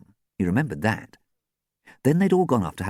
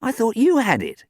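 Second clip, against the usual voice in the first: tentative; 4 dB louder than usual. A narrator's reading. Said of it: "he added tentatively".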